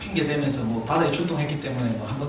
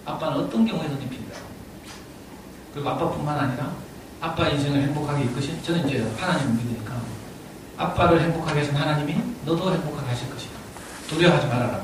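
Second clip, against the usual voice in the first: softer, sincere fatherly reassurance; earnest plea; 2 semitones lower, 4 dB quieter than usual. Retold or imitated. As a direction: plead gently with your scared son. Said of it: "정말 간절한 마음으로".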